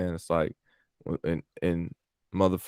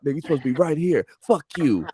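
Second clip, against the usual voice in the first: fast, higher mock scolding; imitating angry boss; 8 semitones higher than usual. Boss scolding nephew in the parlor, mock fast scolding. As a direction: rattle it off like the boss. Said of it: "that nigga said".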